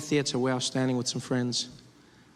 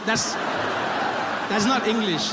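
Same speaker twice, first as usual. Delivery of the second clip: mock disbelief; 4 semitones higher, much slower than usual. Real, not acted. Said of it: "exaggerated disbelief".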